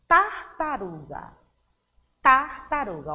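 "Tartaruga" with a stressed first syllable, tongue at the teeth; língua presa no T. Shown as a demonstration. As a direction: press the T opening "Tartaruga". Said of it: "a gente prende a linguinha". (Tartaruga com a língua entre os dentes)

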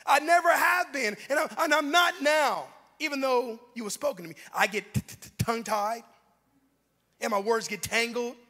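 loud opening falling into tongue-tied stutters; stammering Moses. Acted. Moses tells God he speaks badly, stammering. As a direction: protest firmly, then trip over the words. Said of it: "He begins to say this".

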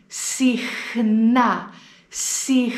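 Συχνά with χν clear; Συχνά, χ then ν; model word. Shown as a demonstration. Teacher shows the χν cluster. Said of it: "έχουμε πάλι το γράμμα χ πλας νι".

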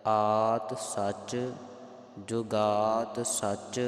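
slow verse in separated words, long held vowels; model recitation. Shown as a demonstration. Teacher recites correct Gurbani for congregation, slow and spaced. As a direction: recite deliberately, pausing after each word group. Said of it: "ਇਸ ਪ੍ਰਕਾਰ ਦੇ ਨਾਲ".

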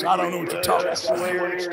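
Arthur Morgan. Shown as a demonstration. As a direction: talk like an outlaw cowboy. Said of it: "Arthur Morgan sounds more like this".

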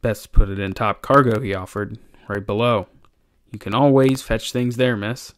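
lightly voiced deferential old sailor; a hint of a humble deckhand; cringing old sailor, offering help. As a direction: lightly play an old sailor being helpful.

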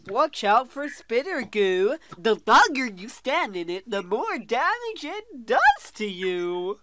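Doctor Seuss poem. Real, not acted. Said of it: "sounded like a Doctor Seuss poem".

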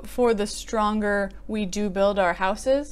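For the stronger we do build our houses, said slowly and evenly; smoother word order. Shown as a demonstration. Correcting the poem's inversion, slow and even. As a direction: ease through the fixed line, unhurried. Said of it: "as opposed to".

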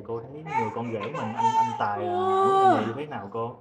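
choked up, barely holding back tears; crying. Real, not acted. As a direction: voice breaking into tears while asking. MC asks mother about son-in-law. (giọng nghẹn ngào, rưng rưng nước mắt)

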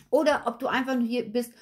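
ordinary delivery

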